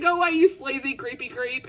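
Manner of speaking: lightly mimicked high-pitched telling-off. Reader retells the heroine telling off a creep, high-pitched. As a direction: raise the pitch a little, mimicking her. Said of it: "like, a really high-pitched voice".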